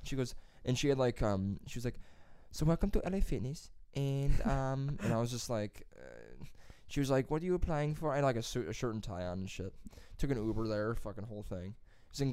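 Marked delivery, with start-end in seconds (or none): 2.5-3.7 higher, imitated Hispanic-accented interviewer; broken-English Hispanic accent, imitated; mock Hispanic accent. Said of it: "She had so bad broken English. She was this Hispanic lady". 7.3-8.1 softer imitated Hispanic-accented question; light Hispanic accent, imitating an interviewer; mock Hispanic accent. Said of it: "She had so bad broken English".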